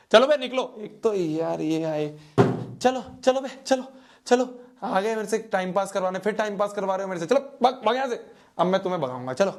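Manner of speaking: teasing get-out-of-here; mock shooing away. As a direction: chase the viewers out in jest. Jokingly shooing viewers off.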